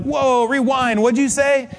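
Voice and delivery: high, startled double-take; taken aback. Retold or imitated. Stunned speaker interrupting his friend's news, taken aback. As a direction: halt the chatter in mock shock.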